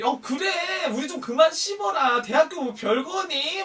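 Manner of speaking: high, sassy camp voice chiming in; campy sidekicks. Retold or imitated. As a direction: pipe up high-pitched, like a campy friend scolding. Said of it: "막 끼순이 애들이".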